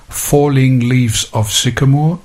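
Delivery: slow, measured verse reading; poem recitation. Shown as a demonstration. Presenter demonstrating seven-syllable verse line, slow poetic recitation. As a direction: recite the line slowly as poetry. Reciting haiku strophes announced before.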